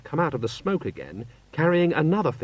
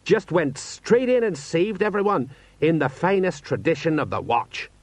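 excited; 7 semitones higher than usual. A narrator's reading. Sergeant praising commander's rescue, excitedly. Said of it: "said Sergeant Colon excitedly".

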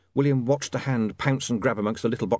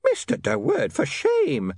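high, scandalised scolding; shocked landlady rebuke; shrill nagging landlady; slower than usual. Acted.

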